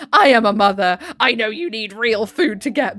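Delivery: loud, proud declaration; acted shout. Mother-in-law shouting her motherhood at everyone, loud proud declaration. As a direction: proclaim it at full volume. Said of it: "shouting to act out that glorious scene".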